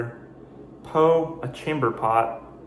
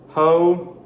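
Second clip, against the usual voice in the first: exclamation; 6 semitones higher, 7 dB louder than usual. Shown as a demonstration. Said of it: "it's an exclamation".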